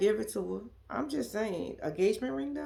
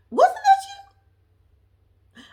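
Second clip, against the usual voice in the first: drawn-out disbelief; 6 dB louder, much slower than usual. Real, not acted. Teasing Monique about crying.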